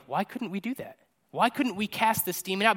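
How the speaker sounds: lightly baffled, rising question; a mildly plaintive why, lifting at the end; puzzled. Retold or imitated. Disciples asking Jesus why they failed, mildly puzzled.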